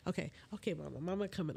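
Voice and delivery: hushed mama voice; soft soothing to son. Real, not acted. Mother hushing her son to sleep, softly.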